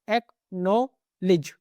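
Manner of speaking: एक्नॉलेज drawn out very slowly, k and d silent; teacher stretching every sound of एक्नॉलेज; slow pronunciation demo. Shown as a demonstration. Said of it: "के और डी दोनों silent होता है".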